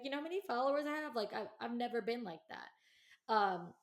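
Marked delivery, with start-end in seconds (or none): 0.0-1.1 mock braggy show-off, high and fast; a hint of a bragging influencer; bragging quote. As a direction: rattle it off like a smug show-off. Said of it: "I wasn't the type of person to be like".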